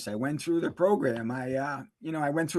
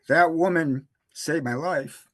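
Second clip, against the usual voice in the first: slow and louder, fighting back tears; choked up; 4 dB louder, slower than usual. Real, not acted. Grateful recovering addict about his rescuer, choked up. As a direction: push the words out through real emotion. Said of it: "excuse me, I'm sorry".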